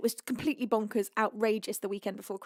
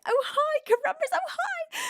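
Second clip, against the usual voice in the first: cute chat greeting. Acted.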